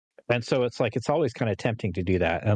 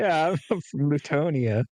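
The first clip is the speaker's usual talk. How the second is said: mock Letonian accent; 6 semitones higher than usual. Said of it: "put on your best Letonian accent".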